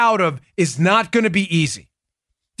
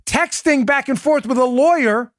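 indignant; 6 semitones higher than usual. Real, not acted. Outraged rant against Warner.

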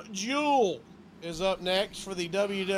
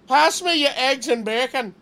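put-on Jamaican accent; 2 semitones higher, 5 dB louder than usual. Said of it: "saying bacon in Jamaican".

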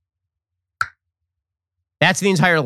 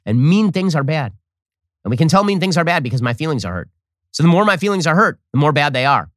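childish mock logic. Mocking childish reasoning.

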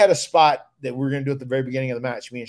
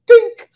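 chair shot sound effect; 13 dB louder than usual. Retold or imitated. Imitating chair shot noise.

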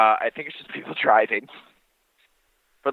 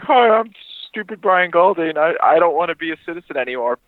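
higher-pitched dopey mock voice; mocking impression; 4 semitones higher than usual. Imitating a friend renouncing citizenship to an official, mocking. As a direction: play a dim friend in a mask. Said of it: "put on, like, a mask of you".

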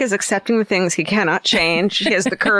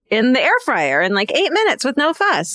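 infomercial; 5 semitones higher than usual. Acted. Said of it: "I sound like an infomercial".

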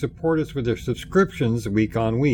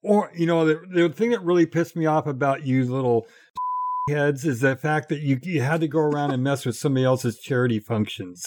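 mock rant. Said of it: "Jeff, take a Metamucil".

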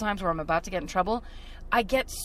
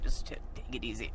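lower, softer calming voice; lightly voiced friend calming things down during a traffic stop; lightly voiced impression; 11 semitones lower, 8 dB quieter than usual. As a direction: talk him down quietly. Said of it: "he's like".

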